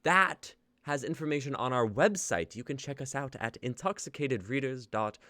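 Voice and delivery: host's attempted RP British accent, slipping in and out. Host closing the show for viewers, in attempted RP accent. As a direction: read the outro in your best RP English accent, sometimes losing it. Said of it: "but we do it in our best R P dialects".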